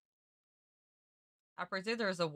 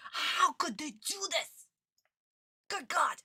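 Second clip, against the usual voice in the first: higher and louder, dragged-out despair; anguished outcry; 8 semitones higher, 4 dB louder, slower than usual. Real, not acted. Fan despairing over what the dub did, real anguished outcry. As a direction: wail it to the heavens.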